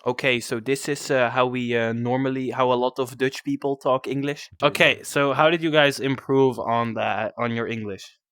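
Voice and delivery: a light Dutch accent on English, barely put on. Shown as a demonstration. Dutch host answers the Swedish demo with a light Dutch accent. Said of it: "I'm gonna do it in Dutch".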